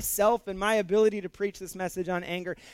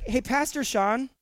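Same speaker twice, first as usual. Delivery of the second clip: sarcastic; 4 semitones higher than usual. Retold or imitated. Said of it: "It's said kinda sarcastically".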